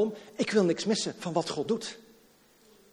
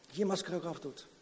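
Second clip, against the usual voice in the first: much softer and a little quicker; soft repeat; 10 dB quieter, faster than usual. Acted. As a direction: drop to a near-murmur. Preacher repeats the phrase.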